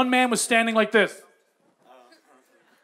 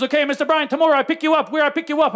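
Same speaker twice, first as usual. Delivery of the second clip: higher, lightly voiced tuk-tuk driver; Mister Mamba; 4 semitones higher, faster than usual. Tuk-tuk driver arranges tomorrow's pickup, eager driver voice. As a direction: imitate an eager foreign driver.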